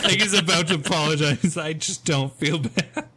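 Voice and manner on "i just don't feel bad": slow, drawn-out tearful parody; mock crying. Retelling a comic video's line, mock tearful. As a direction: fake a tearful non-apology. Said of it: "it's, like, crying".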